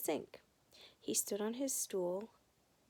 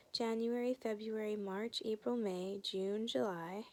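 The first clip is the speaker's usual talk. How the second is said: recited. Acted. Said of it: "Fudge recited".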